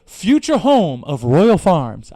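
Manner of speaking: slow deadpan reading of the sign; drawn-out sign voice, word by word; sign read slowly. Retold or imitated. Quoting the sign to the listener, slow and deadpan. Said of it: "It said".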